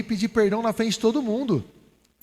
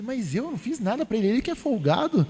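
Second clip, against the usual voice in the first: mildly indignant, higher-pitched protest; retold protest; 4 semitones higher than usual. Arguing back to God about apologising, mildly indignant. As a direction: push back with a touch of grievance.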